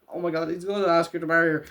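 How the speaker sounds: fast, giddy rush of excitement; excited gasp. Retold or imitated. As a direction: gush it out quickly like a fan. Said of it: "I was like".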